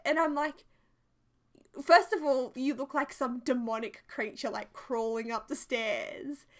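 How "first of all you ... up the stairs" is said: starts loud, then settles into teasing; loud mock scolding. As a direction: tell him off, half-laughing. Scolding husband, amused.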